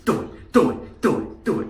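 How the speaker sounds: lightly voiced taunt; mock urging villain. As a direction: egg him on, half whispered. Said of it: "It's like".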